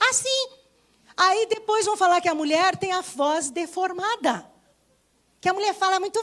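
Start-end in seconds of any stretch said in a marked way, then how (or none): 0.1-0.5 falsetto demo. Shown as a demonstration. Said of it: "Ela vai aprender a falar como?".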